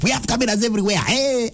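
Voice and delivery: a mock high yell at the driver; retold shout. Traffic officer yelling at a stopped driver, mock high shout. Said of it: "She really shouted at me".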